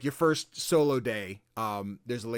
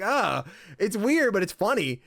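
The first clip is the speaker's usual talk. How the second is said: slow amused drawl; 8 semitones higher, 5 dB louder than usual. Retold or imitated. Own amused reaction.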